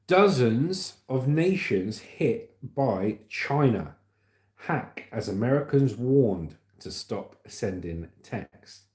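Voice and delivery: slow, emphatic headline announcement; spaced-out news headline; news headline read. Real, not acted. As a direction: read out the headline slowly, word by word. Reads news headline aloud.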